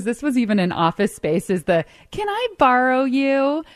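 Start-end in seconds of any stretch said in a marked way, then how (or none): 2.1-3.6 lady's voice. Retold or imitated. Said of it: "I'm saying it in, like, a lady's voice".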